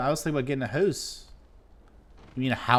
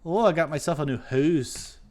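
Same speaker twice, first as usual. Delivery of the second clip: mock Canadian hoose; 2 semitones higher than usual. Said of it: "Canadians say hoose".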